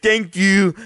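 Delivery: high put-on voice; exaggerated imitation, pitched well up; mock disabled-person voice. Friend thanking the startled girls, mock disabled-person voice. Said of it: "do a mentally handicapped voice".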